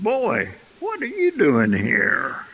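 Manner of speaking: a touch of the startled big lion; lightly voiced lion. Lion finds a cub among goats, mildly astonished.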